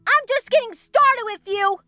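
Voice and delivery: furious shout. A narrator's reading. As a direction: throw his words back in rage. Tails' outburst continues.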